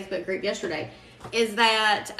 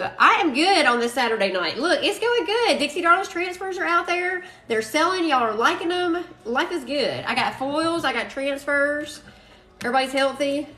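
excited; 5 semitones higher than usual. Real, not acted. Happy Saturday night live update.

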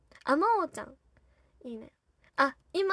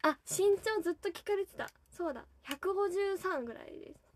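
ordinary delivery

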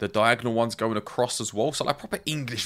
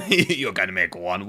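laughing; 3 semitones lower, 4 dB louder than usual. Real, not acted. Mocking the crafting result.

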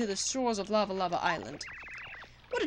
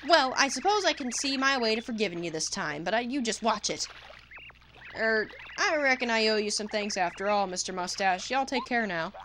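backwoods twang, gruffly forgiving; grudging hillbilly critter. Acted. Bug grudgingly thanking Mario, gruff twang. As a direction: forgive him but warn him.

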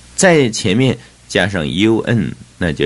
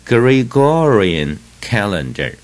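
slow model reading; slower than usual. Shown as a demonstration. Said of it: "第七是Gregorian calendar".

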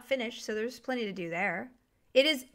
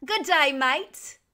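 slow, drawn-out Australian greeting; a playful Aussie "good day, mate"; Australian accent; 3 semitones higher, 7 dB louder, much slower than usual. Pretend. To chat viewers in England, a slow, loud mock Australian accent. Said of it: "That's Australian".

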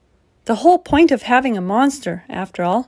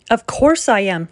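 snapping; 3 dB louder than usual. Acted. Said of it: "she snapped".

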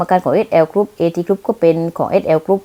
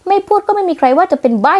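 much higher, sneering with a laugh; high taunting jeer ending in a laugh; mocking laugh; 8 semitones higher than usual. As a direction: laugh in her face as you taunt. Mocking laugh after insult.

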